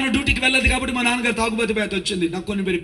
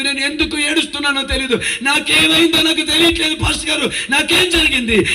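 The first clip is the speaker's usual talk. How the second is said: father's bewildered plea; 3 semitones higher than usual. Retold or imitated. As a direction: voice the father breaking down, higher and higher. Father's anguished confession voiced. (కలవరపడుతూ వేడుకునే తండ్రి గొంతు)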